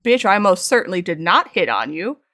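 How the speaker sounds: emphatic, indignant denial; retold anger. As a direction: hit each word of the outraged denial. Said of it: "I was so mad".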